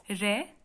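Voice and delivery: "Re" sounded alone as one syllable. Shown as a demonstration. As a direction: isolate "Re" as a single beat, then pause. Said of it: "is one sound".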